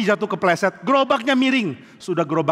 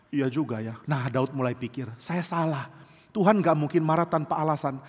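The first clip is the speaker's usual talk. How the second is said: much softer, lower admission; quiet realisation; 4 semitones lower, 5 dB quieter than usual. Retold or imitated. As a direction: admit it softly to yourself. David realises his fault.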